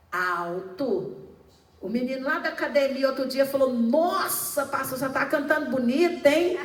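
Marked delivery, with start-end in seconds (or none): 3.7-6.6 loud, quick, impressed exclamation; impressed compliment. Retold or imitated. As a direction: retell the boy's amazed praise. Gym boy compliments pastor's singing.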